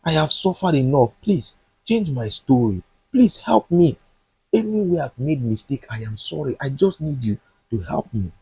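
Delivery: a touch of tearful begging, voice rising on please; mild pleading prayer. Acted. Jonathan begging God to change his story, mildly tearful. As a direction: plead upward, lightly voiced, never truly sobbing. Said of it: "was crying and begging God".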